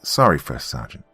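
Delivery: nervous stammer, broken start. Acted. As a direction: stumble over the apology. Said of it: "stammered Private Neely".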